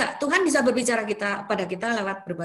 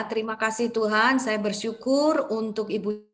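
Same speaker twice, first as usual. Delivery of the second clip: fervent prayer; 3 dB louder than usual. Acted. Prays aloud for the woman.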